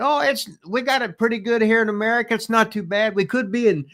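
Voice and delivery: high, earnest small-town orator; clueless speech by a singer. Retold or imitated. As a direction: preach about America without a clue. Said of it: "I remember he said".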